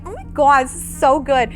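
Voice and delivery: light mock Jersey accent. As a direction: gush in a playful Jersey impression. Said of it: "do it in a completely Jersey voice".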